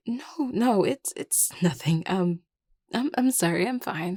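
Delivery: stammering, flustered denial; upset. Acted. Insisting to a worried friend it's nothing, upset. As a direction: brush it off nervously, stumbling over words. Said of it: "you seem upset".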